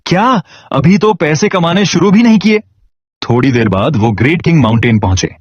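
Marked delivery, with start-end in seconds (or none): 0.1-2.6 a high, startled outburst about money; high-pitched dismayed yelp; shocked cry. Acted. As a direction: blurt it out in shock. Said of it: "सुवु चिल्लाया".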